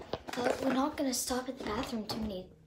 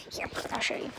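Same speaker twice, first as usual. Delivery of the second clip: whispering; 5 dB quieter, faster than usual. Real, not acted. Quiet aside in the car.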